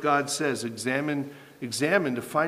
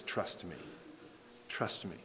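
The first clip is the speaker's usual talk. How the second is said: hushed God voice; 5 semitones lower, 16 dB quieter than usual. Acted. God's voice, hushed reply.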